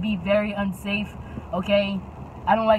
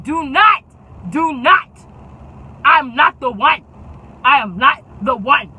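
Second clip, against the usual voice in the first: defiant; 2 semitones higher, 7 dB louder than usual. Retold or imitated. Talking back to driver.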